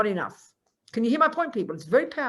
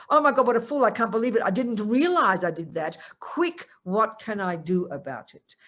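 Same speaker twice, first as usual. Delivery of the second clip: alarmed regret. Retold or imitated. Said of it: "my immediate response is regret".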